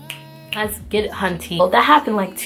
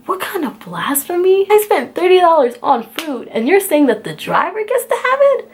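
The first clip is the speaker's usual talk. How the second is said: outraged; 6 semitones higher than usual. Retold or imitated. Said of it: "I'm like".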